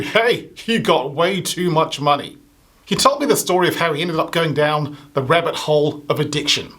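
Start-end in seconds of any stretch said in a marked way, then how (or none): 0.0-2.4 Robin Williams. Retold or imitated. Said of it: "It's like Robin Williams said".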